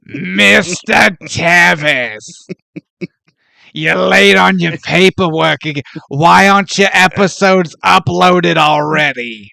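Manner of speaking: a hint of a stern manager scolding a podcaster; mock stern boss. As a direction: nag him about late paperwork. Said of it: "she has the voice".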